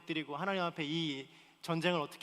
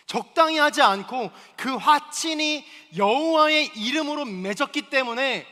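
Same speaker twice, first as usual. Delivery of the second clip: slow, loud preaching climb; preaching at full force; 8 semitones higher, 11 dB louder, slower than usual. Acted. Pastor urging the congregation, slow loud preaching. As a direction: drive each word home to the congregation.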